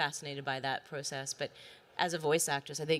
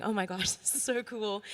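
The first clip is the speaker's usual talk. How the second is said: put-on a kid's giddy delight, a touch higher; childlike excitement; 5 semitones higher than usual. Actress recalling her childlike thrill at the release. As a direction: gush like your eight-year-old self. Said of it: "my eight-year-old self going".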